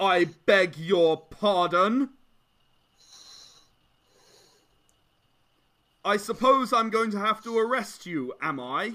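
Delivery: slow, lofty, condescending, haughty official tone. Voicing a guard who looks down at a player: haughty guard voice. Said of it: "the guard kind of stands up straighter".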